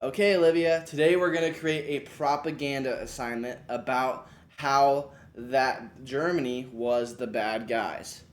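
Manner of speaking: slow, clear teacher prompt to a student. Shown as a demonstration. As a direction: guide the student gently and slowly. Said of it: "then I would say".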